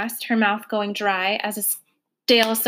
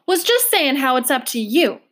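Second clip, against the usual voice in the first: louder, cutting across her; breaking in loudly; 4 semitones higher, 5 dB louder than usual. Acted. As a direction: interrupt to take over. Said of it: "Trotter broke in loudly".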